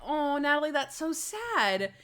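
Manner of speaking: high, drawn-out cooing pity; mock sympathy. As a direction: coo with exaggerated sympathy, stretching the end. Acts out a sympathetic viewer.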